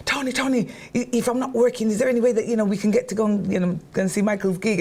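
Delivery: 3 coax him into the tickets; 1 eager pleading. Retold or imitated. 4 begging husband Tony to go to the gig, eager.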